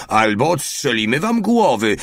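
high, loud bellowed threat; threatening yell. A narrator's reading. Mały threatening the guards, loud yelled threat. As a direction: shout the threat like a cop. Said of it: "darł się jeszcze głośniej".

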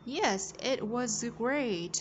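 very slow, drawn-out "Yes, it was great"; slow model reading. Shown as a demonstration. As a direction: stretch each word for learners to copy. Teacher models line slowly. (đọc mẫu thật chậm, kéo dài từng từ)

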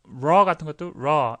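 light British-style R in raw; "raw" with British R, tongue only half pulled back; British half-strength R. Shown as a demonstration. Teacher contrasts British with American, weak British R. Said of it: "영국 사람들은 그렇게 한 반 정도".

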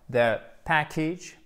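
"the package" said slowly with stress on the first syllable; slow model pronunciation. Shown as a demonstration. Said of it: "prononciation de la suite". ("package" lent, accent sur la première syllabe)

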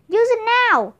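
urgent shouted order to a friend. A narrator's reading. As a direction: bark the order across the sleigh. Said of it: "he shouted".

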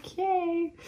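airy, unvoiced okay; whispered okay. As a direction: breathe it out like a stunned aside. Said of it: "I was like".

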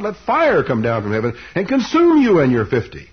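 acted thundering prophet; solemn pronouncement. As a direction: call down judgment, swelling on the key words. Preacher acts out Elijah's judgment.

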